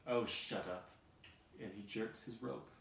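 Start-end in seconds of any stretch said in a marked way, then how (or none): 0.1-0.9 dismissive snap. Acted. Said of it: "The old woman carrying Donkey says".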